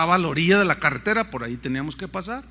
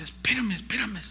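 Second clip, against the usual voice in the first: tearful nurse; 3 semitones higher, 4 dB quieter than usual. Retold or imitated. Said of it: "empieza a llorar así".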